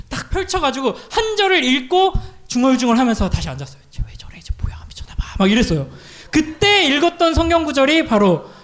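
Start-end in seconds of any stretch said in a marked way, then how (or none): 3.9-5.4 hushed, baffled whispering; gossiping whisper. Retold or imitated. Recruits whispering about the odd one, baffled whisper. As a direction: whisper it behind a hand.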